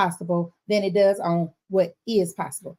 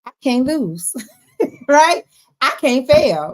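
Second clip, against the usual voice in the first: upbeat confident quote; 3 semitones higher, 5 dB louder than usual. Retold or imitated. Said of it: "Or you can say".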